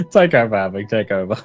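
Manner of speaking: talking through hiccups; hiccuping mid-sentence. Real, not acted. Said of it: "It's all right, it's all right".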